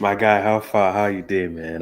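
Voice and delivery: Nigerian Pidgin greeting; Nigerian accent. Shown as a demonstration. Friend asked to show their accent, Nigerian Pidgin. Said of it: "talk in your accent".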